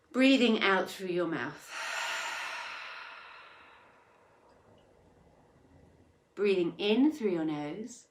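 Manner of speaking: unhurried meditation instructions with long pauses; guided meditation. Acted. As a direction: guide them gently through each breath. Leads breathing in meditation.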